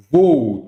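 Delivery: "vou" drawn out to show its two vowels; split into syllables. Shown as a demonstration. Teacher showing students the vowels in separate syllables, drawn out. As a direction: stretch "vou" slowly, vowel after vowel. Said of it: "Quando você separa em sílabas".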